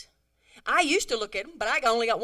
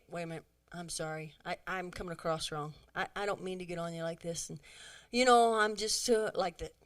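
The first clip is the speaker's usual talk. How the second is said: softer, humble apology; 4 semitones lower than usual. Shown as a demonstration. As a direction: gently own up to her. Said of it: "And say".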